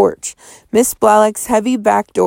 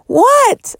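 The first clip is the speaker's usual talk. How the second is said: sharp high startled shout; 4 dB louder than usual. A narrator's reading. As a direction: yell it in shock. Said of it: "I shouted".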